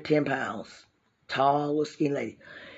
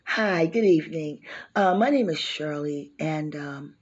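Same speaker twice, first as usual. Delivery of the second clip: sweet, proper phone caller voice; polite white girl voice. Shown as a demonstration. Asking a loan officer for a loan in a polite white girl voice. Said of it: "trying to show y'all how the white girl voice".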